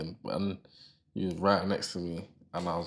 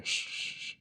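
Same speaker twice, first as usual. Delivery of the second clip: imitated shushing; 6 dB quieter than usual. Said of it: "you hear".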